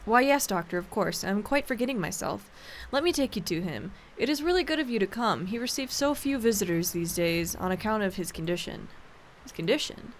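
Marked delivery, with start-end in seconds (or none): 0.0-8.9 lightly voiced housekeeper. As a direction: welcome the doctor like a fussy old servant. Housekeeper again.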